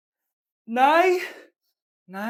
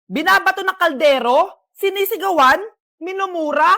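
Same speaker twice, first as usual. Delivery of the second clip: loud accusing list; 6 dB louder than usual. Acted. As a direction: read each charge out like an accusation. Teacher reads the abuse list aloud.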